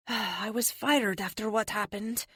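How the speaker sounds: slow, sighing admission. A narrator's reading. Fired officer confiding in a friend, sighing. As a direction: admit it slowly after a sigh. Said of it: "she says with a sigh".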